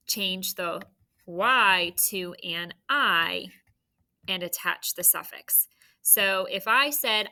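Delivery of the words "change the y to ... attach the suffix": "Y to an I" spelled out very slowly; slow rule. Shown as a demonstration. Teacher to third grade, slow stressed rule. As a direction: stretch "Y to an I" so the rule sinks in. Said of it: "So what is the rule?".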